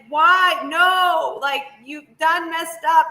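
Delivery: high, exclaimed protest at the screen; aghast mock scolding; dismayed heckling. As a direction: plead with a film character, voice jumping up. Reacting to horror film scene.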